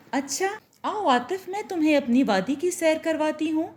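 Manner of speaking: swaying with joy, invite him along; joyful invitation. Acted. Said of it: "किरण खुशी से झूम सी गई".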